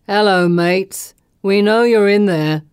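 loud, drawn-out taunting call. A narrator's reading. Pursuer to fugitives hiding in the sewer, calling out. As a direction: call slowly into a tunnel.

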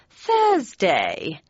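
breathless, airy announcement. A narrator's reading. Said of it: "announced my mother in a breathless tone".

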